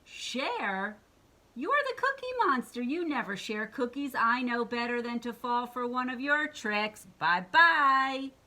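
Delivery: high, loud, disbelieving monster friend; incredulous bye-bye; scoffing Harry. Acted. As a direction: brush him off as Harry. Harry refuses.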